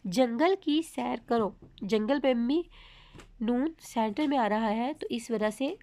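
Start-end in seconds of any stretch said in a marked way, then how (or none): 0.1-1.5 slow, deliberate, word by word; slow clear reading. Shown as a demonstration. Teacher reading an example to students, slow and clear. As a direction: read it out carefully for learners. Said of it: "जो हम आपको पढ़ के सुनाएंगे".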